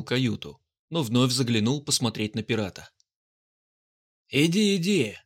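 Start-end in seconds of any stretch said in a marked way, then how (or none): 4.3-5.2 brusque. Acted. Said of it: "вытолкнул его один из серых мундиров".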